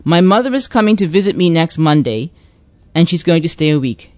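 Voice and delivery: clearly enunciated standard English; proper English. Shown as a demonstration. Host giving a caller the phrase, proper English. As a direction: read it out properly for translation. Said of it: "translate into Bermudian".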